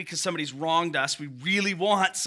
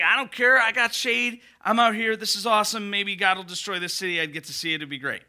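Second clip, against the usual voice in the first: mock smug Jonah; 2 semitones higher than usual. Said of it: "He's just like".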